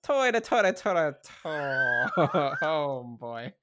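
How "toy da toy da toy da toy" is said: Irish brogue, slowing down; sing-song Irish toy da; mock Irish accent. Mock Irish brogue for the sign-off ta-da. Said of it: "Irish accent".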